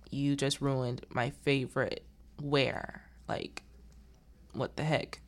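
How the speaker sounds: quiet, slow, sugary complaint; passive-aggressive. Retold or imitated. Woman with spilled coffee complaining, mildly passive-aggressive. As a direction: needle her softly and slowly. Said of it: "passive-aggressive kind of way".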